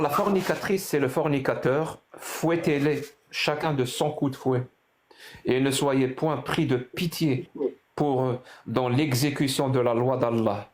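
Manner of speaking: slow, measured scripture reading; solemn verse reading. Real, not acted. Host reading the verse in French to his caller, slow recitation. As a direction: read it out slowly, phrase by phrase.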